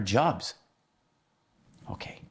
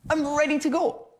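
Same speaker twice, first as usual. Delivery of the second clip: high-pitched, raring to go; squeaky put-on eagerness; jittery excitement. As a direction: burst out, acting giddy with excitement.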